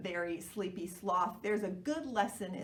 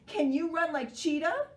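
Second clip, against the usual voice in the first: grumpily; 8 semitones higher, 5 dB louder than usual. Acted. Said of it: "said Elephant grumpily".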